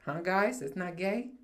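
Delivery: high, rising, needling questions; teasing mock question. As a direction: tease with each phrase lifting at the end.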